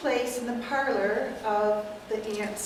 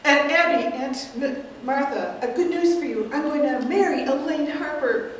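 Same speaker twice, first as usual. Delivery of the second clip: Mortimer; 4 dB louder than usual. Acted. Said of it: "I'm gonna be playing the nephew, Mortimer".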